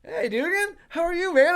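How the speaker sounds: friend's greeting. Retold or imitated.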